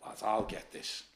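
barely voiced, low and quiet; hushed retelling. Mate quietly offering to handle the fighter, murmured. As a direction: mutter it under your breath like a mate stepping in. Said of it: "Me mate went".

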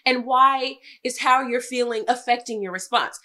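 high, loud retold arguing; exasperated self-defence. Wife defending her response to husband, exasperated. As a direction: argue your point emphatically, voice climbing.

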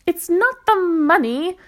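high, loud and slow cry; excited cry. Acted. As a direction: cry out, overjoyed. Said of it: "cried his mother".

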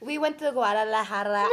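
mimicking a Spanish accent on Guadalajara; imitated Mexican Spanish accent. Teasing a friend about her accent, imitated Spanish accent. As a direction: put on a Mexican accent for the place name. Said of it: "Look at your accent".

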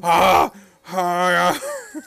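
loud mock gasps trailing off; imitated excited gasps. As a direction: gasp like an overwhelmed boss. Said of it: "Vince is just going".

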